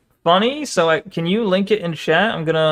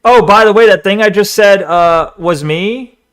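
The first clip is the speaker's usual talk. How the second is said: mock paraphrase; 6 dB louder than usual. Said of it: "He's basically saying".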